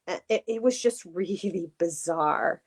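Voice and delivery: a hint of MJ's catchphrase voice, laughing; sounding like MJ. Real, not acted. To her cohost, unintentionally sounding like MJ, lightly. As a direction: slips into MJ's way of saying it. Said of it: "I just sounded like M J there".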